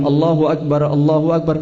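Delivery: "Allahu Akbar" quick with "Akbar" clipped short; wrong takbir. Shown as a demonstration. Teacher contrasting wrong takbir for students, quick. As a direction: rattle it off the wrong way. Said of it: "Bukan gitu".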